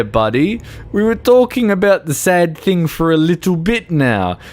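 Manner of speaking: high, laughing, half-crying voice of his own brain; teary mock pep talk. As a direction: scold yourself gently through tears and laughter. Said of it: "And it's like".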